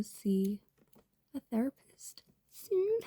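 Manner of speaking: half-whispered aside; whispered confession. Real, not acted. Telling viewers she needs therapy, whispered. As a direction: admit it in a whisper.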